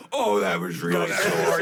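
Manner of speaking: high, loud mock cry of pain; drawn-out, hammed-up hurt wail; imitating injured singer. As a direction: act out a singer crying out in pain. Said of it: "you just hear her go".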